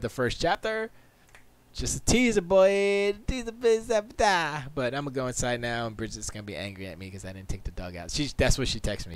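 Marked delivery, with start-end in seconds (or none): none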